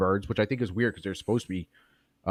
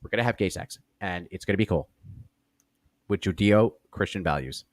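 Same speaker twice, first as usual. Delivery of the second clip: Ben Shapiro impression. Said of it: "he always talks kinda like this".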